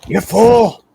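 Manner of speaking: mock whispering voice. Game master voices an unseen whisperer to the player, mock whisper. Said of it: "you hear this guy whispering".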